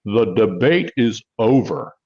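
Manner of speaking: lightly voiced politician; a hint of a politician's delivery. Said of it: "Great politician voice there".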